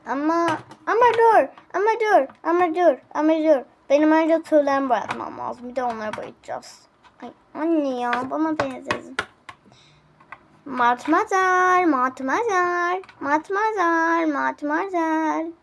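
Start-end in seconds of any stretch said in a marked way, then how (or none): 0.9-3.6 urgent protest. Acted. Repeated stop. 10.6-15.5 drawn-out call. Acted. Calling the maid slowly.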